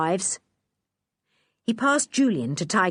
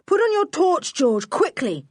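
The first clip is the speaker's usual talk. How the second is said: higher, louder urgent call; yelled order; 11 semitones higher, 4 dB louder than usual. Acted. Julian yelling to George for light, urgent. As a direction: hurry her in the dark. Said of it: "he yelled".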